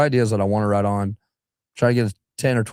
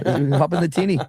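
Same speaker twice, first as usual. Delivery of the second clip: put-on Australian accent; 8 semitones higher than usual. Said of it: "they call the little boats".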